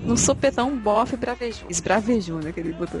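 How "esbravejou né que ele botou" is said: ordinary talk, nothing marked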